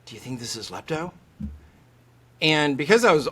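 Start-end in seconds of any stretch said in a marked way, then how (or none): 0.1-1.1 quick, softer colleague's question; retold question. ER colleagues asking the lepto king, quiet retold question. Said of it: "they'd always ask me".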